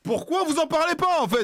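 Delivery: high, loud, slow falsetto lady voice; man doing a woman's voice. Pretend. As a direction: drag it out in a shrill put-on woman voice. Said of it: "parce que madame".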